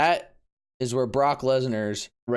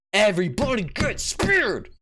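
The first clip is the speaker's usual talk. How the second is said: excited shout; 6 semitones higher than usual. Real, not acted. Describing Edge spearing everyone.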